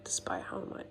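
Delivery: groggy, half-whispered early morning voice; just woke up, hushed and drowsy; sleepy voice. Real, not acted. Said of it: "Excuse the sleepy voice".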